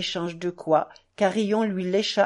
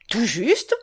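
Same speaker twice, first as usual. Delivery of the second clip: ingenuous. Acted. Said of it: "s'écria Colia avec ingénuité".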